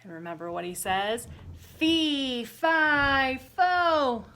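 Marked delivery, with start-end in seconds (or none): 1.8-4.2 loud, high giant roar. Acted. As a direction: roar each word. Giant chant cut short.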